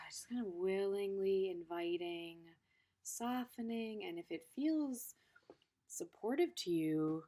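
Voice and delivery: soft, unhurried meditation guide voice; calm teacher's guiding voice; guided meditation. Acted. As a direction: gently lead them through the massage. Leads a body meditation.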